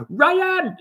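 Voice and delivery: "Ryan!" called out high and loud, falling at the end; the buddy from Texas yelling his name; imitating his buddy. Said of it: "he would always say it just like how I say it".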